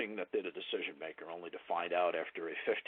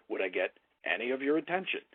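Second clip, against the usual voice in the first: "any of your attention" stressed, climbing at the end; emphatic voice inflection; 3 semitones higher than usual. Shown as a demonstration. Trainer demonstrating a closing question to a prospect, inflected "any of your attention". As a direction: lift "attention" into a questioning rise. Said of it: "the voice inflection, it puts emphasis on the words".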